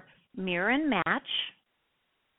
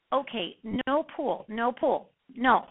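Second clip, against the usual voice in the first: slow mirroring reply; 3 semitones higher, slower than usual. Shown as a demonstration. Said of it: "I just mirror and matched their speech pattern".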